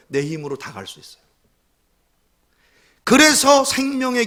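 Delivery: loud, rising, pleading preaching; fiery preaching. Acted. Pastor pleading with the congregation about the narrow road, fiery. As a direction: plead with the crowd at full voice.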